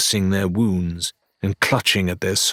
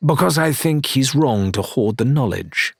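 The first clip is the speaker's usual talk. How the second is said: curt; 5 semitones higher than usual. Acted. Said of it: "Rathbone replied curtly".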